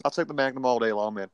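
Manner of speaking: first-try mock American tough guy; American accent. Co-host bragging about his gun in a mock American accent. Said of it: "first time I've ever tried to do an American accent".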